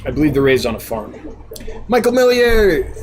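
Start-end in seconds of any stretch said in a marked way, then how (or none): 1.9-2.9 high, drawn-out announcing call; playful name announcement. Pretend. Streamer introducing the next viewer's question, playful drawn-out call. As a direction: sing out the name slowly with gusto.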